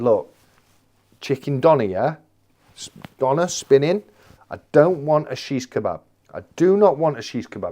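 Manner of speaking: emphatic, careful retold order; very clear. Customer to takeaway man about a chicken doner, very clear. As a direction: spell it out firmly, word groups set apart. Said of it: "have to be very clear".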